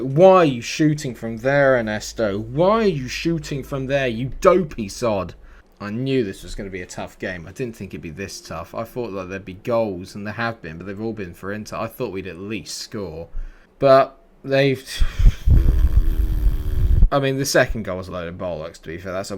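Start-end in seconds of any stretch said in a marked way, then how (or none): 0.0-5.4 louder, higher scolding of a player; angry rant. Real, not acted. Berating player's long-range shot. 14.9-17.1 long, heavy exasperated sigh; loud sigh. Real, not acted. Frustrated after conceding.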